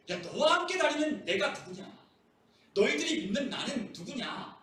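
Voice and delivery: high, emphatic rhetorical questioning; insistent challenge. Acted. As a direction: demand recognition, as a teacher confronting followers. Preacher acts Jesus challenging the disciples.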